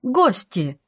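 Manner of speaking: high, happy exclamation; joyful. A narrator's reading. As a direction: beam as you repeat it. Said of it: "с радостной улыбкой".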